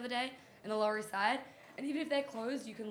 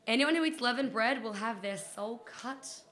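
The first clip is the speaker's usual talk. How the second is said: slow, loud, solemn scripture voice; dramatic reading; 2 semitones higher, 5 dB louder, slower than usual. Pretend. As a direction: declaim like a biblical decree. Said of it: "here we go".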